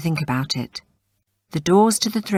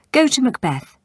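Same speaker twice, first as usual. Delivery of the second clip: commanding; 8 semitones higher, 5 dB louder than usual. Acted. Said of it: "he said".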